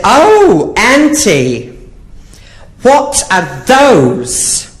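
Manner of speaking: put-on high, wide-eyed child; little boy voice. Nephew asking his aunt, high child voice. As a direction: ask like a curious four-year-old.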